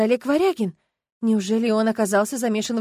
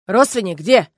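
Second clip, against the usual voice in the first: gruff demand; 8 dB louder, slower than usual. Acted. Милиционер резко переспрашивает.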